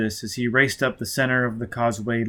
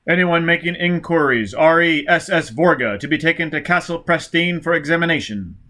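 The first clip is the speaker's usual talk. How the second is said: loud, higher announcer reading out orders; official broadcast voice; 5 semitones higher, 5 dB louder than usual. Acted. Police radio bulletin announcing the war crisis, loud and clipped. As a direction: bark out the emergency bulletin.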